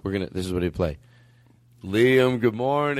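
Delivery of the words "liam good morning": drawn-out, sing-song good morning; acted morning wake-up greeting. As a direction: play at waking someone up. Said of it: "let's act right now".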